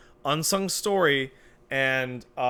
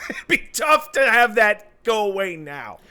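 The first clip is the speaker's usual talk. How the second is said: laughing through the words, louder and higher; 9 semitones higher, 7 dB louder than usual. Real, not acted. Cohost repeating the joke, laughing. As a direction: chuckle it out.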